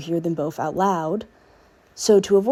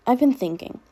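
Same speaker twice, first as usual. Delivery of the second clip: put-on filtered clone girl voice; 6 semitones higher than usual. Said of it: "I will be putting on a filter".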